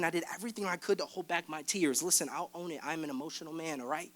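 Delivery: hushed confession. Real, not acted. Confessing rough season.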